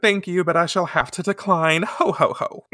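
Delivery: prim refusal ending in affected laughter; laughing it off. Retold or imitated. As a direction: play a genteel schoolgirl declining. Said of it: "Rei laughs it off".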